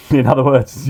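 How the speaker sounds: laughing while speaking. Real, not acted. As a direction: chuckle through the words. Laughing aside.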